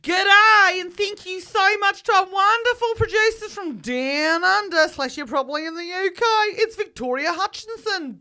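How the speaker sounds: lightly Australian thank-you list; Australian accent. Acted.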